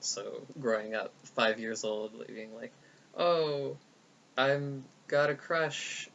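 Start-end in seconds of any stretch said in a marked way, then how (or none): 3.1-6.1 put-on little kid voice. Voicing her five-year-old self.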